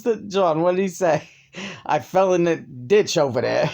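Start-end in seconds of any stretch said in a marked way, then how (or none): 1.8-3.7 lightly mocked Sicilian street accent; Sicilian-American accent. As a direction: imitate an actor slipping into a Sicilian New York accent. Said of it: "totally lost his, uh, educated, astronaut accent".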